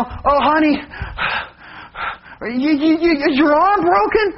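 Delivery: high, worried mock concern from the wife; wife fussing over a broken arm, lightly voiced. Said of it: "Donna voiced in story".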